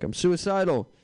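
high, loud suicidal caller. Retold or imitated. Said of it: "he'd be like".

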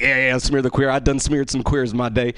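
imitated Southern heckler; mock Southern good old boy; Southern accent. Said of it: "don't know why they went Southern for that".

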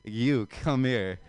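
drawn-out mock come-on, very slow; beckoning window prostitute. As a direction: lightly imitate a slow, beckoning summons. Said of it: "they point at you and they're like".

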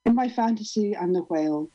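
measured, deliberate performance reading; poem reading. Acted. Poet performs her cow poem to the group, deliberate reading. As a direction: let each line land as spoken word.

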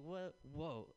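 startled high what, whoa; stunned gasp of surprise; shocked. Retold or imitated. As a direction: blurt it out in disbelief. Shocked at piano slam.

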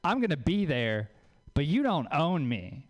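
measured, self-possessed reply; dignified independence. Acted. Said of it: "that has some dignity to it".

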